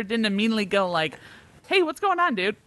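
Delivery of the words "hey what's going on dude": laughing mock shout. Imagined normal brother reaction.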